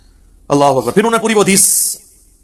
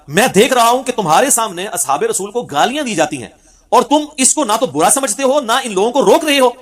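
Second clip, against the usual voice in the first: higher, slow and emphatic reproach; quoted rebuke with raised pitch, driven home; stern rebuke; 5 semitones higher than usual. Retold or imitated. Companion rebuking those who tolerate insults, stern and raised.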